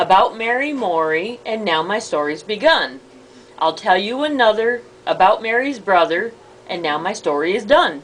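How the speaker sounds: measured, lilting recital; rhyme recitation. Acted. Repeating the story rhyme back, lilting recitation. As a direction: recite a familiar verse line by line.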